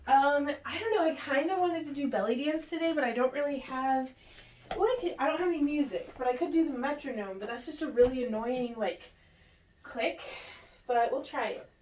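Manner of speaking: talking out of breath after stairs; breathless, catching breath between phrases. Real, not acted. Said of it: "Sorry, I'm out of breath".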